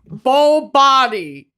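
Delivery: slow, drawn-out "Bo Body"; lightly imitating Creed chanting; Creed impression. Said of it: "he's like".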